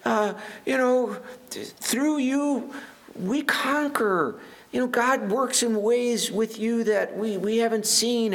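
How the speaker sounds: hammed-up needy king, high and quick; pleading king. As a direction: play the king flattering the prophet. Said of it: "he's like".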